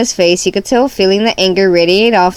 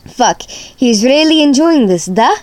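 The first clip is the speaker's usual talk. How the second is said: Russia's voice; 5 semitones higher than usual. Acted. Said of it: "I'll try to do their voices".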